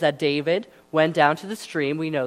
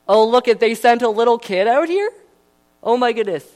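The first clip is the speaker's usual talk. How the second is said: higher, louder jeering giant; mocking Goliath; 6 semitones higher, 8 dB louder than usual. Goliath mocks the boy sent to face him, loud jeering. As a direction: sneer at a little kid sent out. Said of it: "And Goliath, he was not kind".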